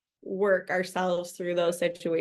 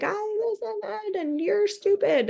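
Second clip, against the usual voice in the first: mock kid retort; 13 semitones higher than usual. Kids answering rudely.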